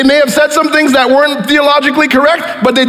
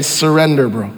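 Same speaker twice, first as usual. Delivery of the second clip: low, softly voiced loving God; quiet, low call to surrender; gentle invitation; 12 semitones lower, 3 dB quieter than usual. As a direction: invite them tenderly, pitched well down. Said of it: "all-loving God present, ready to help, saying".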